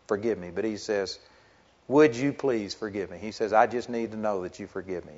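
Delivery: soft, low, broken-hearted pleading; humble plea. Retold or imitated. Repentant son asking his parents to forgive him, soft and humble. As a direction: beg quietly for forgiveness.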